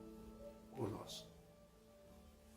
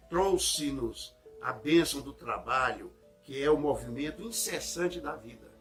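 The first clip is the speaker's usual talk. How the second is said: leitura solene de sermão; 3 dB louder than usual. Acted. Reads the message aloud. (leitura pausada e solene)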